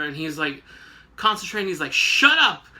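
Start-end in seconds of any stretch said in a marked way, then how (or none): 1.9-2.7 sudden high, loud snap; mock furious outburst; snapping shout. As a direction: bark it at them to shut up. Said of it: "he's literally snapping again".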